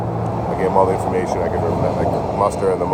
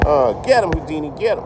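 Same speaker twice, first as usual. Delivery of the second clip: calling to the dog; 9 semitones higher than usual. Real, not acted. Cheering on his dog Houdini.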